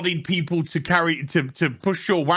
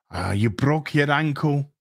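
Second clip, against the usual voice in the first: low, mock-sympathetic line; mock emotional moment; 5 semitones lower than usual. Mocking the Harfoots' forced emotional moment, mock sympathy. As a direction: imitate forced concern in a lower voice. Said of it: "where they're just like".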